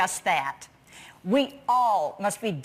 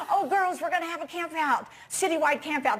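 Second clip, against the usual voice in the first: higher, quick, eager leader voice; retold excited announcement; 4 semitones higher, faster than usual. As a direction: share the big news with the girls, lightly acted. Leader re-enacts reading news to girls.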